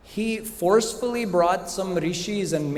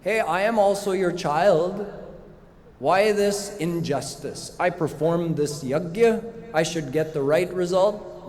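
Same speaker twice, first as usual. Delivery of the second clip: mildly acted indignant protest; retold complaint, lightly aggrieved; complaining; 2 semitones higher than usual. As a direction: plead the injustice to God. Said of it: "he complained to Bhagwan".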